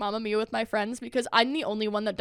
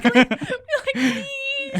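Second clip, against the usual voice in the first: very high, crying with laughter; laughing plea; 5 dB louder than usual. Retold or imitated. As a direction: beg through laughter. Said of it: "I'll be like".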